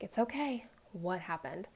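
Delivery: gentle, hushed reassurance; retold comforting murmur, softly coaxing; soothing. Mother soothing her hyperventilating daughter, gentle.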